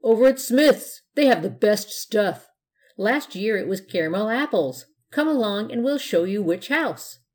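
eager. Acted. Kid eagerly telling about candy.

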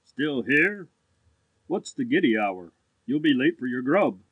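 put-on low, lazy young gentleman; languid. A narrator's reading. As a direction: drop the pitch and sound idly superior. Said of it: "he said in a languid tone".

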